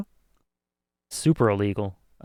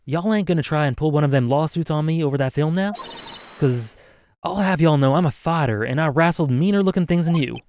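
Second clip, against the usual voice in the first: higher put-on Southern twang; Southern US accent; 3 semitones higher than usual. Camera owner warning a lawyer, feisty Southern accent. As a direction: challenge them in a Southern accent. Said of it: "I can't do an accent".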